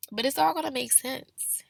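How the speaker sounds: soft reassuring whisper. Acted. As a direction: breathe it gently, unvoiced. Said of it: "repeated reassurance".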